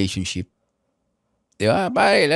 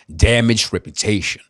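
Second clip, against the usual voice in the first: put-on slow swaggering American accent; slow mock American accent with swagger; imitating AI's American accent; 2 semitones lower than usual. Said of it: "nag-focus na ako sa accent".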